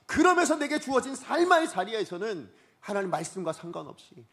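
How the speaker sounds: high, loud pulpit delivery; full-force preaching. Real, not acted. Preacher exposing believers' excuses to the congregation, full-force preaching.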